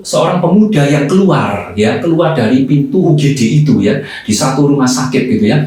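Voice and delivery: ordinary delivery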